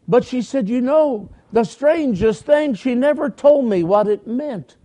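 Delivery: a hint of a chatty woman retelling a memory; Polly's voice. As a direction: lift the voice a little to play Polly. Preacher voices Polly's retold words.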